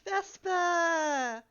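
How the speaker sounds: calling out to stop a pet biting. Real, not acted. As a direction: call the pet sharply by name.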